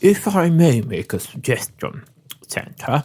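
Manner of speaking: cheeks stuffed while talking; mouth full. Acted. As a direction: talk through a full mouth. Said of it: "he's got his cheeks full".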